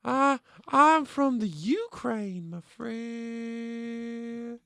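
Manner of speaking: put-on slow, lightly Russian-accented. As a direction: drawl it with a faint Russian accent. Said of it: "You don't sound like Ukraine".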